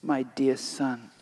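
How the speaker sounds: hushed and tender, slowing down; soft gentle voice. Acted. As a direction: soothe a child gently. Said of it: "in a soft, gentle voice".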